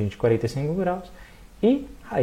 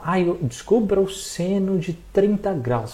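student asking; 4 semitones higher, slower than usual. Retold or imitated. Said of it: "toda vez que ele falar".

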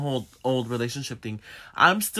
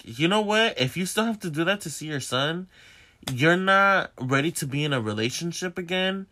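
higher-pitched, mildly indignant telling-off; firm confrontation; 5 semitones higher than usual. Retold or imitated. Telling boyfriend he isn't ready, firm confrontation. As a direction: lay down the line, pitch raised. Retold confrontation before breaking up.

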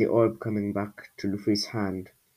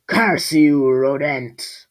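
loud, higher creature shriek; 5 semitones higher, 10 dB louder, much slower than usual. A narrator's reading. Wounded creature curses the squall while fleeing, shrieking. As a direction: shriek the curse at full force. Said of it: "shrieked the creature".

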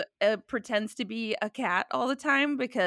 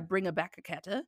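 quick mock Italian accent; lightly imitated bad Italian accent; 3 semitones lower, 6 dB quieter, faster than usual. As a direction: toss it off in fake Italian. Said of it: "doing a bad Italian accent".

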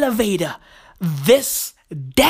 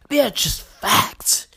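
whisper; 3 semitones lower than usual. Acted. Whispered repeat of the phrase.

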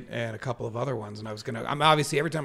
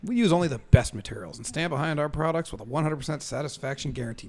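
commercial read; 4 dB louder than usual. Acted. Reads out the written commercial.

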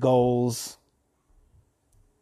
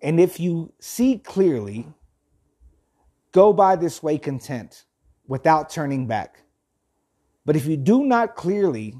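measured, deliberate reading with firm pauses; reading aloud. Acted. Host reads philosophy to listeners, measured reading aloud. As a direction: read it out phrase by phrase.

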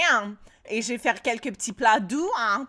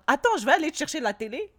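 sarcastic retort; 4 semitones higher than usual. Retold or imitated. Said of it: "Je dis".

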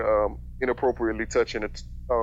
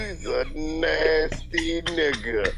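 disgusted; 5 semitones higher, much slower than usual. Real, not acted. Shocked disgust.

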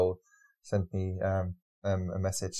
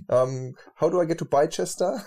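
laughing; 6 semitones higher, 4 dB louder than usual. Shown as a demonstration. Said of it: "when I speak English".

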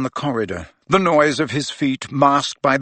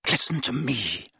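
low, softer urgent command; 6 dB quieter than usual. Acted. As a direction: hush him to listen. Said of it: "his voice so low now".

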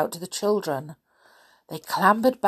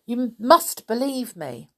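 cross; 5 semitones higher than usual. Acted. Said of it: "said Binky crossly".

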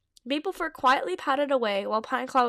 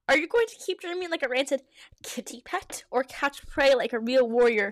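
spat. Acted. Breaking Bone rebuking daydreaming Outerfang, mildly spat. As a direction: scold with a touch of venom. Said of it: "he spat at him".

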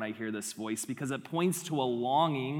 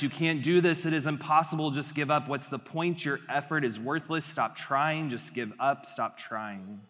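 discouraging inner voice. Acted. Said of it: "the voice sounds like this".

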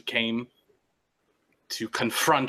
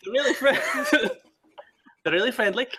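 laughing in character; 12 semitones higher, 3 dB louder, faster than usual. Acted. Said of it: "out of character".

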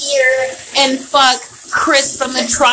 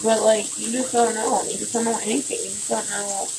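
fading to a murmur; 6 dB quieter than usual. Real, not acted. Trails off musing.

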